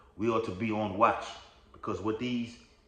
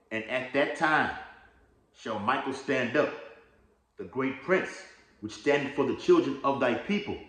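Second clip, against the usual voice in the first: scripture reading; 3 semitones higher than usual. Acted. Reads Daniel aloud as scripture.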